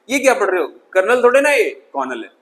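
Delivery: mock senior correcting a junior; lightly acted scolding senior; embarrassing seniors. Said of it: "उनके seniors उन्हें embarrass करते".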